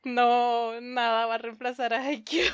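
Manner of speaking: loud indignant fan denial; loud protest. Real, not acted. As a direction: protest it loudly, half joking. Fan protests loudly for favorite.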